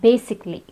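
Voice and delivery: basically said with the A dropped; basically in three syllables, no A before the L; silent A. Shown as a demonstration. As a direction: say basically as BAY-sik-lee. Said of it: "In the same pattern".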